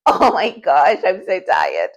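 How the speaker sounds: exhausted moan. Retold or imitated. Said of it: "And I'm like".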